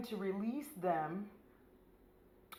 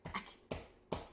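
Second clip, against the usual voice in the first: soft, voiceless choked gasp; hammed-up speechless whisper; overcome; 10 dB quieter than usual. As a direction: barely squeeze it out, mock-swooning. Swooning over actor, voice gives out.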